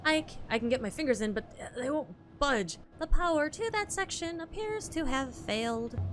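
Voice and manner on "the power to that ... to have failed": put-on a light British accent for the polite robot; prim robot butler, lightly British; lightly voiced British robot. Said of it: "My British accent is not great".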